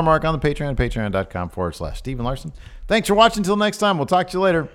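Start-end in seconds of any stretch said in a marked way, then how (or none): 2.9-4.7 much higher, louder, shouting sign-off; loud hype outro. Acted. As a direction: blast the outro like an announcer.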